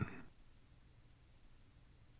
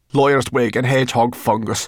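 raised, louder character voice; grumbling Sorrel; 5 semitones higher, 6 dB louder than usual. A narrator's reading. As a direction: curse it out grumpily.

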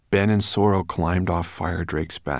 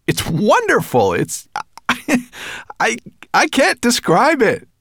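high, loud and thrilled; exhilarated; 8 dB louder than usual. A narrator's reading. Ben thrilled by flying, exhilarated shout. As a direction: stammer with breathless delight.

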